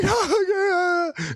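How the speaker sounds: high crying whine, hammed up; mock child's wail. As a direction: imitate a sick child wailing. Acts out sick child wailing.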